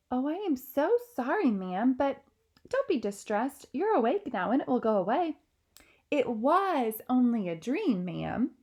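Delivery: calm the frightened queen; reassuring maid. Acted.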